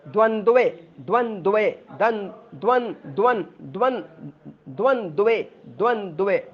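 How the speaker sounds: द्वंद्वे with both द्व clusters sounded; द्वंद्वे carefully; pronunciation drill. Shown as a demonstration. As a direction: build up द्वंद्वे part by part. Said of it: "बोलते वक्त थोड़ा ध्यान देना है".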